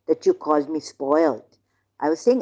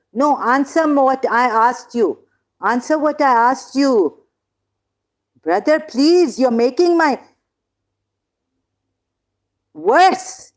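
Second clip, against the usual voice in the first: exasperated, higher-pitched demand; fed-up, raised-voice pleading; heated insistence; 5 semitones higher, 4 dB louder than usual. Real, not acted. Heated argument on stream.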